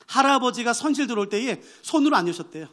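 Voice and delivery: usual speaking voice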